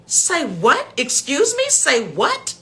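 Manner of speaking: high mock disbelief; squeaky outraged caller; incredulous scammer. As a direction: mimic the caller's shocked squeal. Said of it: "He said".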